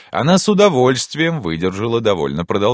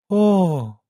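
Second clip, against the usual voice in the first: high, stretched, doubting "oh"; distrustful drawn-out oh; 13 semitones higher, 3 dB louder than usual. Acted. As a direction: draw it out in disbelief. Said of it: "протянула она недоверчиво". (недоверчиво, протяжно)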